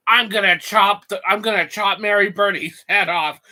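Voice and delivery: gleeful loud declaration. Acted. Gleeful repeated threat.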